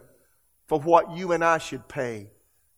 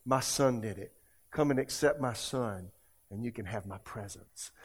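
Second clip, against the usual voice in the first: gentle, low invitation; God; 4 semitones lower than usual. Retold or imitated. Preacher voicing God to the forgiven listener, gentle and low. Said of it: "so that God could look at you".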